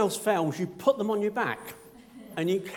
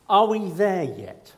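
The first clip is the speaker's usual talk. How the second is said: slow, drawn-out whine, a bit louder; whiny child voice; 5 dB louder, slower than usual. Retold or imitated. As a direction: whine it like a bored kid in the back seat. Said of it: "It usually comes in a vo-, whiny voice".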